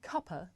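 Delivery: cuppa with a final schwa, kuh-puh. Shown as a demonstration. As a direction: say cuppa, ending in uh. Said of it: "the word".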